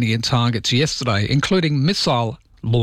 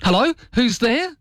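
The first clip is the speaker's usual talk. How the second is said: much higher, mock puzzled voice; caught-out caller asking who's there, hammed-up; confused caller; 12 semitones higher than usual. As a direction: call out as if nobody answers. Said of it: "No, it's not".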